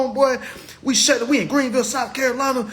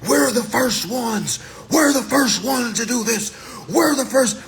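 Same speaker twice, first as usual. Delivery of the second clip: mock yell; 4 semitones higher than usual. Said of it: "going screaming".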